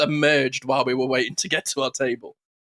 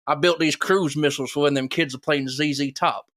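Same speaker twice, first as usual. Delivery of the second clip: Robin Williams bit. Retold or imitated. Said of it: "directly from Live at the Met, Robin Williams".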